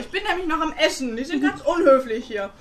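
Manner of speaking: talking with a mouth full of food. Real, not acted. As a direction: mouth full, words round a bite. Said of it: "sie spricht mit vollem Mund".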